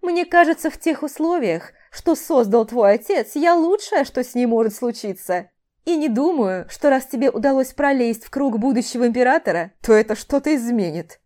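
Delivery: громче и выше, самодовольно; говори свысока, уверенный в себе; самодовольный парень. Acted. Рейвен свысока поучает. (самодовольный здоровяк)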